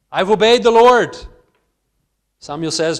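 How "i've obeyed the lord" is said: boastful Saul. Acted. He wants all the credit.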